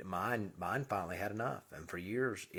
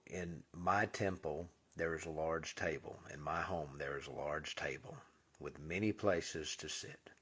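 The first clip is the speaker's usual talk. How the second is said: slow solemn affirmation. Shown as a demonstration. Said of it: "This is how I talk".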